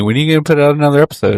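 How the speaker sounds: fast mocking asker. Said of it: "people keep asking me".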